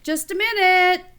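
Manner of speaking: Fred, engrossed in his book, putting his brother off; Fred brushing off. A narrator's reading. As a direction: toss it back absent-mindedly.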